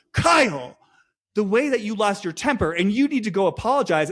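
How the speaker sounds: put-on reproach, opening on a high-pitched name; mock scolding. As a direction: call the name high, then lecture. Imitates the house scolding Kyle.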